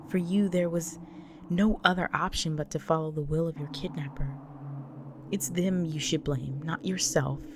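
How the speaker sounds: firm, emphatic reassurance; insistent comfort, leaning on key words; earnest insistence. Acted. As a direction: press each point to lift their guilt. Insists partner is not to blame.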